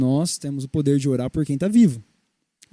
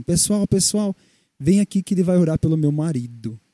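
mildly raised voice, imitating a woman calling everyone; voz levantada imitada. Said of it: "essa mulher me levanta a voz". (chamando o pessoal, imitação leve)

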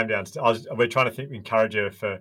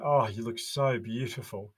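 gushing compliment. Retold or imitated. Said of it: "And I go".

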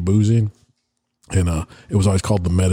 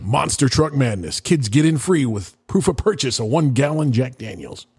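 monster truck ad; 3 semitones higher than usual. Pretend. Mock monster truck radio ad.

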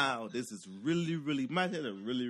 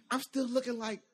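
high, laughing fretful voice; high, nervous whine; high helpless whine; 9 semitones higher, 6 dB louder than usual. Retold or imitated. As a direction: whine it like a scared onlooker. Helpless bystander.

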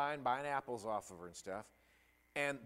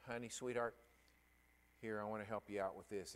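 tender comfort; 3 semitones lower, 5 dB quieter, faster than usual. Retold or imitated. Preacher voices himself comforting girl.

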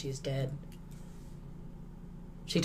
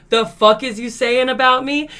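mock angry comeback; 7 semitones higher, 8 dB louder than usual. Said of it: "She was like".

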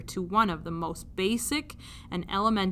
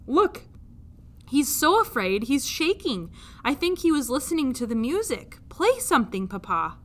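put-on higher girlish voice; pleading princess; 4 semitones higher than usual. Princess begging the king to play, lightly voiced pleading. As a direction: coax her father. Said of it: "princess pleads".

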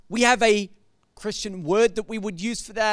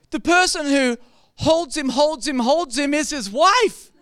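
laughing reveal; 4 semitones higher, 4 dB louder than usual. Real, not acted. Pastor revealing the song is about a wife, laughing. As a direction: laugh at the punchline.

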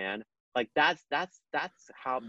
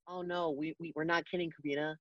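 higher, softer imitated voice; reassuring; 5 semitones higher, 6 dB quieter, faster than usual. Amanda assures him it is no joke, soft and high. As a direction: lightly act out a soft reassurance.

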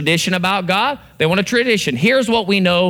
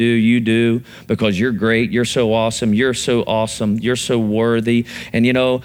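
low, self-pitying mock prayer; groveling prayer; 6 semitones lower than usual. Shown as a demonstration. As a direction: pray like someone begging to be noticed as unworthy. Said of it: "I'm gonna do a couple prayers".

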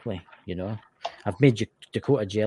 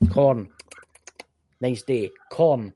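NPC voice; 3 semitones higher, 4 dB louder, slower than usual. Retold or imitated. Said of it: "the A M P C TikTok things".

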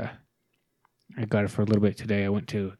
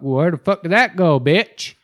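louder, higher, slow furious jab; angry outburst; 7 semitones higher, 10 dB louder, slower than usual. Real, not acted. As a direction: spit it out at her, fed up. Venting at ex, ranting.

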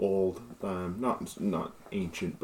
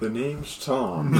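laughing; 8 semitones higher, 16 dB louder, slower than usual. Real, not acted. Laughing at the joke.

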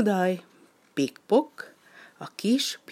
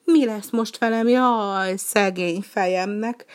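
higher, louder wailing duck lament; lost duck lamenting to the penguin, higher and louder; complaining lament; 5 semitones higher, 4 dB louder than usual. Acted. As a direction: wail over the lost flock.

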